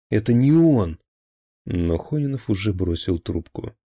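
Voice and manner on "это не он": louder, higher insistence; desperate shout. Acted. Maslakov shouts that Dyatlov is not the traitor. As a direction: cry out the denial.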